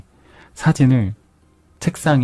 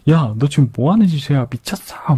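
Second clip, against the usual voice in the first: mock-angry scolding, slightly raised pitch; retold anger; 3 semitones higher than usual. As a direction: act out an exasperated boss, without real shouting. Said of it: "막 시몬스 경감이 화를 내요". (화난 상사를 가볍게 흉내 내는 말투)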